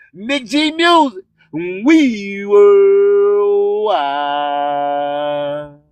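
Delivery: slow deep processed station tag; radio drop. Acted.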